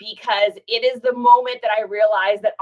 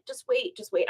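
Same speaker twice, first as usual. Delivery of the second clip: near tears; 7 dB quieter than usual. Retold or imitated. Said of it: "I'm, like, on the verge of tears".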